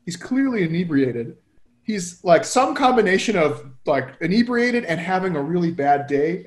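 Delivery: settled, measured inner voice; calm reasoning. Retold or imitated. Driver reasons with himself to de-escalate, calm. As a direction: talk yourself down calmly. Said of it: "calm side kicked in".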